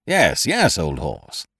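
cried out. Acted. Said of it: "cried Ukridge".

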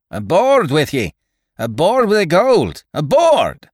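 frantic yell. A narrator's reading. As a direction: bellow orders in a panic. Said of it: "he yelled frantically".

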